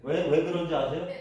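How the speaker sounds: ordinary talk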